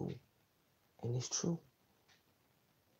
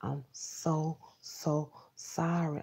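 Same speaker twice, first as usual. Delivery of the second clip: softer, slow, drawn-out sorry; hushed and slowed right down; soft apology; 5 dB quieter, much slower than usual. Retold or imitated. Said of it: "She says".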